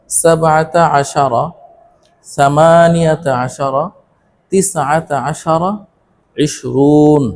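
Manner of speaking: slow Arabic counting chant with stretched long vowels; deliberate, evenly paced teacher's recitation; repeat-after-me modelling. Shown as a demonstration. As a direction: draw out each compound number for learners to echo. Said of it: "আমার সাথে সাথে বলো তোমরা".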